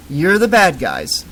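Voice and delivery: dopey singsong repeat; parroting. Acted. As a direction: echo it back like a parrot. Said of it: "repeated like a parrot".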